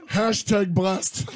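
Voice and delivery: very slow, deliberate hashtag; slow drawn-out. Pretend. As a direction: stretch every word like a caption. Mock influencer tag.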